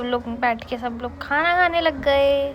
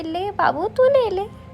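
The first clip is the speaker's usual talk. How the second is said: higher, lilting retold coaxing; coaxing offer; 7 semitones higher, 4 dB quieter, slower than usual. Aunt offering her anklet to the other aunt, imitated coaxing. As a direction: lightly imitate someone urging a loved one to take it.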